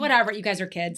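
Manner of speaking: mildly irritated, dismissive retelling; annoyed brother. Retold or imitated. Older brother dismisses the scared kids, mildly annoyed. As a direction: brush them off like an older brother. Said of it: "he's just annoyed".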